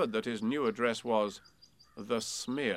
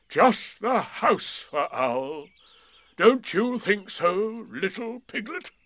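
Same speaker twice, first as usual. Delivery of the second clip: put-on higher, slow, gently teasing young boy; boy's voice; 10 semitones higher, 9 dB louder, slower than usual. A narrator's reading. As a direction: speak as a cheerful small boy. Christopher Robin voiced.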